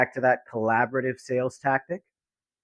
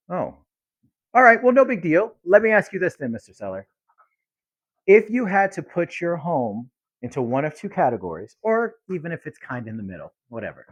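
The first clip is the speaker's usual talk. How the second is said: casual question; 3 semitones higher than usual. Shown as a demonstration. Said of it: "my response would be".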